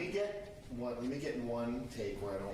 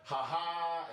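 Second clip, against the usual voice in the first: signature ha ha; 6 semitones higher, 4 dB louder than usual. Shown as a demonstration. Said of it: "The ha-ha is universal".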